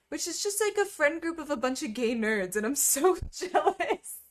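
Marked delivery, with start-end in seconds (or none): 2.5-4.2 playfully jealous. Real, not acted. Gay nerd friend group.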